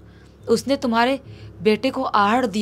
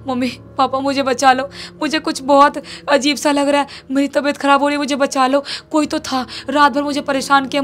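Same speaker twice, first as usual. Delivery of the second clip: pleading; 4 semitones higher, 4 dB louder than usual. Retold or imitated. Boy begs parents to save him.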